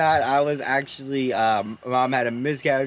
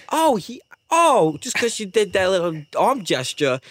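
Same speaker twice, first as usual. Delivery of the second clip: pitched-up mock acceptance; sarcastic forgiveness; 4 semitones higher than usual. Cut-off driver about the wave, sarcastic forgiveness. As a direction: act out sarcastic, grudging understanding.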